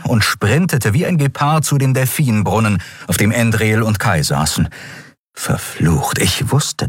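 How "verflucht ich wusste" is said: whispered, cursing under the breath; whispered curse. Acted. Keru curses under his breath. (geflüsterter Fluch)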